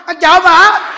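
high, loud frightened cry; husband fearing a burglar, shouting; scared shout. Retold or imitated. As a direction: blurt it out in fear. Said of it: "Ông chồng càng sợ".

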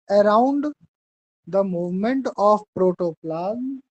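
very slow, each word spaced for writing; slow dictation. Shown as a demonstration. Teacher dictating a definition to students, very slow and spaced. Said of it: "हम जैसे बोले वैसे लिखना".

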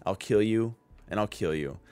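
low, soft and icy, retold with no emotion; cold, quiet resolve. Yuji calmly tells Mahito he'll just kill him, in a cold, quiet voice. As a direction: hold it back and say it quietly like a final verdict. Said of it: "it's just the coldest".

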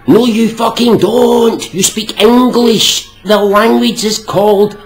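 slow, loud and high, hammering each phrase; angry rant. Real, not acted. Ranting at someone who calls English American, loud and angry. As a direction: tear into him.

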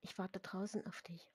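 soft whisper to a friend. Acted. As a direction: whisper it after class. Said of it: "flüsterte Ginny Lucy zu". (geflüstert)

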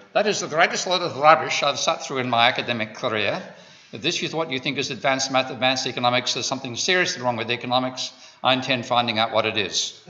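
a light attempt at an Austrian accent; hint of Austrian, an Australian trying it. Quoting John Blatt at the seminar, light Austrian accent. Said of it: "I'll try an Austrian".

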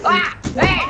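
startled shout. Real, not acted. Startled in game.

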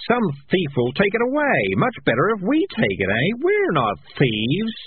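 high, pleading wail. A narrator's reading. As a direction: keep whining the case, pitched well up. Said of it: "wailed Morris".

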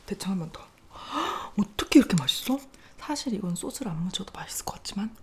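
quick breathy whisper between bites; ASMR whisper. Acted. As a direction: whisper fast to the mic. Whispered eating asides.

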